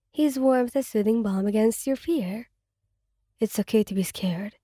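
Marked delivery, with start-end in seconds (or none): 3.4-4.6 calm her gently; gentle murmur. Acted. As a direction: boyfriend soothing his scared partner, murmuring. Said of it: "he murmurs".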